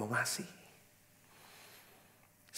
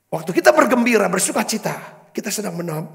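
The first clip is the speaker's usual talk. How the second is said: higher and louder, driving sermon voice; full-force preaching; 6 semitones higher, 9 dB louder than usual. Acted. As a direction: preach it out to the congregation, slowed on key words. Preacher rising to congregation.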